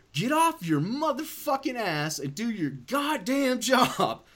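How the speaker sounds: play-acted, high, furious, lost-it screaming outburst. Recounting losing it with a nurse, reenact screaming at them. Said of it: "I just started screaming".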